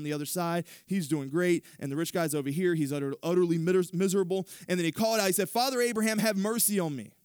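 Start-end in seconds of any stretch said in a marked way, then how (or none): 5.5-7.1 begging. Acted. Rich man begging in torment.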